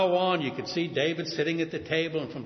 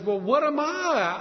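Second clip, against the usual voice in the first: groveling humility; 5 semitones higher than usual. Retold or imitated. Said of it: "He grovels in gratitude".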